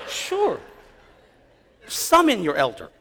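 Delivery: mock-courteous invitation; acted cool reply. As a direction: agree brightly, then drop into a measured command. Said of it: "No, I don't talk like that".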